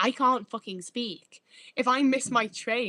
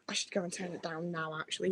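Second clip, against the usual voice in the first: whisper; 3 semitones lower, 7 dB quieter than usual. Real, not acted. Leaving to turn heating down.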